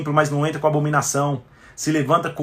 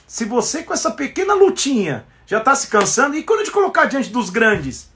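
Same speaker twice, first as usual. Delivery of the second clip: builds higher to a peak; rising challenge; 6 semitones higher than usual. Acted. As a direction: challenge him, climbing higher.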